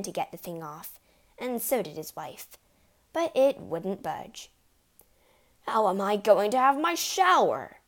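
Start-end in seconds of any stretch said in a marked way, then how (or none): 5.7-7.8 loud, exasperated husband's voice; loud whining demand. A narrator's reading. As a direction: demand an answer from his wife. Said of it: "he demanded".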